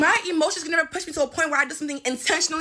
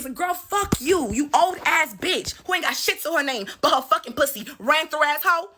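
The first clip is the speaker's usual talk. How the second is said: angry insult. Real, not acted. Insulting the former friend.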